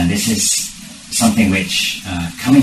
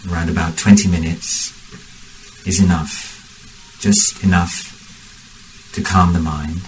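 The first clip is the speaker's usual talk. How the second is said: measured meditation guidance with long pauses; guided meditation. Real, not acted. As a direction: guide the group unhurriedly, phrase by phrase.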